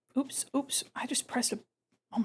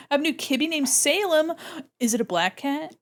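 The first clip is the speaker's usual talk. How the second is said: ordinary talk, nothing marked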